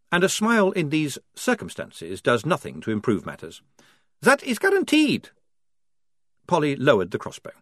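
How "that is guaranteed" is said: very high and loud, cheery vampire voice; cheerful vampire. A narrator's reading. Otto cheerfully promises Polly he won't bite, high vampire voice. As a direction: reassure her brightly in a strange high vampire voice.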